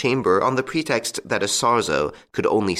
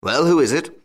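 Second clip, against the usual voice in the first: gruff, louder growl into the phone; 7 semitones higher, 4 dB louder than usual. A narrator's reading. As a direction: bark it at the caller, still fuming. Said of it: "he took down the receiver and growled".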